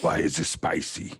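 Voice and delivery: whispered. Real, not acted. Mouth burning from candy.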